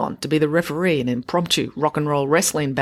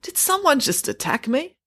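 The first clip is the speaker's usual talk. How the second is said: higher, dazed question; groggy; 10 semitones higher than usual. A narrator's reading. Girl coming round on the floor, groggy. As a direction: wonder aloud, still muddled. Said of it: "she asked groggily".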